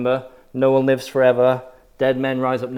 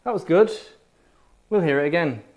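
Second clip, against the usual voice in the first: higher, mock-polite "that's interesting"; polite churchgoer praise; 7 semitones higher, faster than usual. Preacher mocks churchgoers who praise but never believe, higher and light. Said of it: "they'll say".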